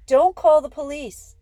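loud, high-pitched plea; begging. A narrator's reading. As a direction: cry out in urgent appeal. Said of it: "I begged".

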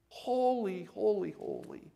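high, restrained echoing call; imitated cry back. Other half of the pastors crying back, imitated high echo. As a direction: answer like a distant crowd, held back in volume. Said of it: "would cry back".

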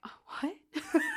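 high, incredulous "what" through a laugh; laughing disbelief. Retold or imitated. Shocked viewer laughing at the sudden death. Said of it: "And I'm like".

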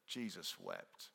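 "Jesus wept" as a low, soft, slow fed-up curse; swearing exclamation. Retold or imitated. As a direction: mutter "Jesus wept" like an exasperated British oath. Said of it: "it's a term of swearing".

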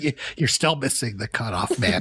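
imitating barely contained anger, very calmly; mock-patient coach holding it in; forced calm. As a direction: speak calmly while holding back rage. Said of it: "very calmly saying".

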